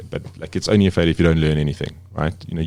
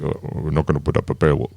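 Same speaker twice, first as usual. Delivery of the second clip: lightly attempted Serbian accent that drifts toward Indian; botched Serbian accent; 2 semitones lower than usual. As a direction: imitate a Serbian editor, accent slipping into Indian. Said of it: "trying to do a Serbian accent, but it came out more Indian".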